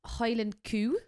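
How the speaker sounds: put-on Highland coo in a light Scottish accent; mock Scottish accent. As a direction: say coo like a Scot. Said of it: "saying things with a Scottish accent".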